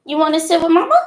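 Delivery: high sing-song coaxing to a little one. Real, not acted. Mom coaxes her baby daughter to come sit with her, high baby talk.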